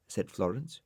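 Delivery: ordinary delivery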